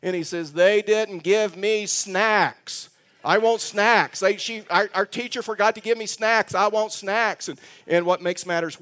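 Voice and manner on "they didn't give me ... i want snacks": imitating a crying child. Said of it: "He starts crying. He starts getting hysterical".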